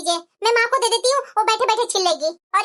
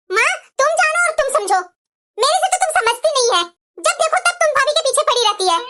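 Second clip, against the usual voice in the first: higher, sharp complaining retort; irritated daughter; 4 semitones higher than usual. Acted. Daughter fed up arguing with her mother, irritated retort. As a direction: snap back at mom, fed up.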